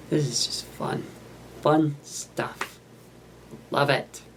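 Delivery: light Wisconsin accent; a hint of a Wisconsin accent. Real, not acted. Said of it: "getting a Wisconsin accent now".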